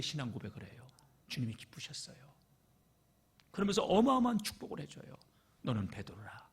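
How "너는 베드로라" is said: whispered, soft and intimate; hushed blessing. Acted. Jesus whispers his blessing to Peter. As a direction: breathe the blessing as a secret.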